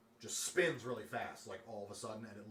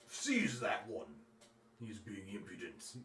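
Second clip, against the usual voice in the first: commanding dragon; slower than usual. Acted. Dragon to its giants, slow haughty command. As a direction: give the order as if he is beneath you.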